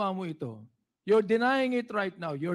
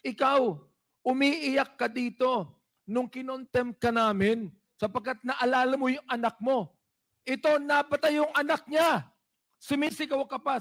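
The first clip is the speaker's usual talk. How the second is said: forceful scolding; 3 semitones higher than usual. Real, not acted. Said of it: "Dynamic lang ako".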